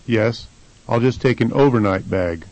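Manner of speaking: "overnight" stressed on O, its first syllable. Shown as a demonstration. Answering the question about staying, stress on O in "overnight". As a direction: shift the weight forward to the O of "overnight". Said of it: "the first syllable is stressed".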